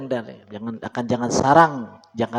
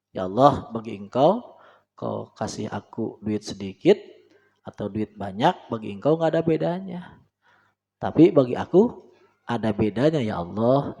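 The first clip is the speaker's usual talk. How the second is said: steady calm prayer; 4 semitones lower than usual. Shown as a demonstration. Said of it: "Nah, yang itu cepet tuh".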